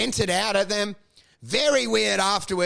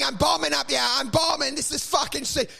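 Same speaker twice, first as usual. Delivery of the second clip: retold yelling; 6 semitones higher than usual. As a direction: re-enact yelling while bombing on stage. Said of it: "I'm yelling".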